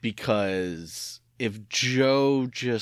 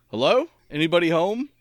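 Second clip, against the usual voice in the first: imitating Joe's father; 10 semitones higher, 6 dB louder than usual. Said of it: "I can hear Joe's father's voice saying".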